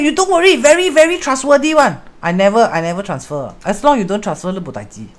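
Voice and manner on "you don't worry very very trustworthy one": higher, coaxing reassurance; imitated member. Quoting the member's pitch to her, higher coaxing voice. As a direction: coax like someone selling a deal. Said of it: "Then she said".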